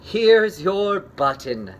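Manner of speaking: loud, slow call; hopeful call. Acted. Frog calling to Toad from the woods, loud. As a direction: call it out slowly.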